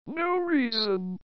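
very slow, knowing no reason; slow sly denial. Acted. Friend slowly faking innocence before teasing. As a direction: draw it out like you're hiding a scheme.

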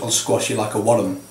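light imitated Scottish accent, worm stretched to two syllables like wor-lum. Friend threatening the lad, lightly imitated Scottish accent. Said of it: "'cause it's Scottish, it goes".

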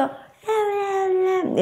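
put-on very high, soft whiny babbling baby; baby babble. Shown as a demonstration. Baby answering the parent, high whiny babble. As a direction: babble like a baby trying to talk. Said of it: "empieza a querer hacer un intento".

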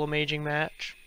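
soft words broken by hiccups. Real, not acted. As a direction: talk through the hiccups. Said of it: "I got the hiccups".

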